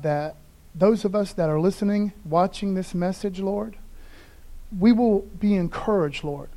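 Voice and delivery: soft, earnest pastor's prayer; spoken prayer. Acted. Pastor prays for those watching the message, soft earnest prayer. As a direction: pray over the listeners gently.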